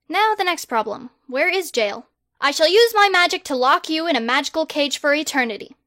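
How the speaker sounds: loud, grand, self-important; pompous boy wizard. Acted. Harry the Great loftily turning down a survey, loud and pompous. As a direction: proclaim yourself like a hero.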